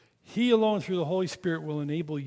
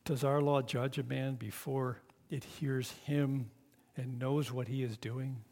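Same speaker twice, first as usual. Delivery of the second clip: timid; 3 semitones lower, 6 dB quieter than usual. Acted. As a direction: barely dare to object. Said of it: "Very timid".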